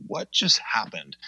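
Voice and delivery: stunned, slow whisper. Retold or imitated. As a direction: breathe it out in disbelief. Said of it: "And then I went home and I'm like".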